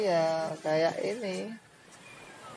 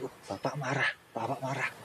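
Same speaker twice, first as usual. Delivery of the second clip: softer, frightened little murmur; hushed child; 10 dB quieter, faster than usual. Retold or imitated. Teacher voicing a scared child seeing father angry, hushed. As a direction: whisper it like a scared child who sees dad angry.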